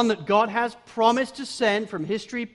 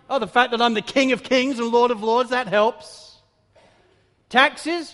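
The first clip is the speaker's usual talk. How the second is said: higher, louder, brisk mock-incredulous comebacks; voicing Jesus' retorts; 4 semitones higher, 4 dB louder than usual. Preacher voicing Jesus as he rebuffs his temple challengers, higher and louder. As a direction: fire back as Jesus, amused and sure.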